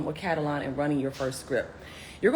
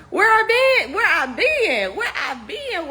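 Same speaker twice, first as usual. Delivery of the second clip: playful teasing; 12 semitones higher, 4 dB louder, slower than usual. Real, not acted. Playful repeated question.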